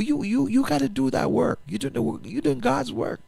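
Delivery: high, urgent preaching push; fervent exhortation. Real, not acted. Pastor urging listeners to do God's work, fervent and high. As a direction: drive it home to the congregation.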